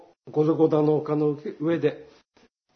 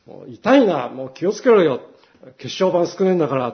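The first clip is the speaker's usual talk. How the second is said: irritated, a touch louder; petty annoyed complaint; mock grumble; 3 dB louder than usual. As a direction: grumble at the careless cyclist. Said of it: "なんかそう言いたくなっちゃう".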